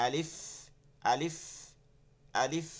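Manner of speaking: "আলিফ" with a lengthened ending; teacher's model "আলিফ", final f held; drawn-out letter name. Shown as a demonstration. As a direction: recite "আলিফ" carefully, stretching the lif. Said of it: "এক আলিফ টেনে টেনে পড়বো".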